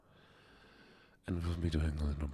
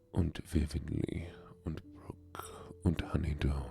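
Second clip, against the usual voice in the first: a hint of a German accent on the roll call. Reading out viewers' names in a light German accent. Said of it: "We are currently stuck in the German accent".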